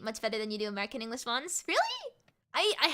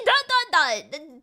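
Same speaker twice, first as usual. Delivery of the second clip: slow, louder, each word punched; deliberate spelling out; 5 semitones higher, 9 dB louder, much slower than usual. Real, not acted. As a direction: spell out the dots pointedly. Reading chat's ellipsis aloud.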